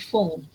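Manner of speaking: put-on Phone with the gliding vowel of "old"; long O sound. Shown as a demonstration. Teacher repeating the correction, Phone with long O. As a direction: round the o in Phone. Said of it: "the sound is old".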